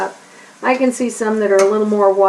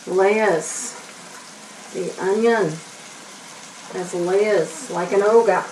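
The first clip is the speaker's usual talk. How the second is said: lightly imitated Shrek accent, slowing down; a hint of movie-ogre accent; attempted Shrek accent; 4 dB quieter, slower than usual. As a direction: have a half-hearted go at Shrek's ogre accent. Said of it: "I can't do the accent".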